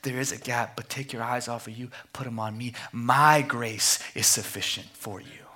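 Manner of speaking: a lightly voiced, calm and tender God. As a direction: reassure them gently as God. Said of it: "He says".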